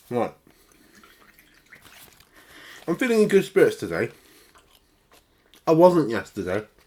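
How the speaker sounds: talking with mouth full. Eating a snack bar while talking, speaking with mouth full. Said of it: "I shouldn't be eating with my mouth full".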